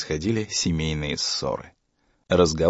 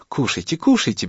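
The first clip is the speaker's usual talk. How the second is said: conciliatory; 6 semitones higher than usual. A narrator's reading. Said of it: "примирительно сказала мама".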